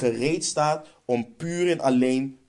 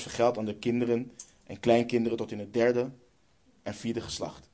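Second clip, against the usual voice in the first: solemn scripture reading. Acted. Preacher reading Exodus to the congregation, solemn and proclaiming. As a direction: proclaim the verse like a herald. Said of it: "Let op wat de Heere riep".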